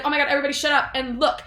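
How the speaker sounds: fast mock excitement, ordering silence; urgent hush. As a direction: hurry them to the window. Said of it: "B is like".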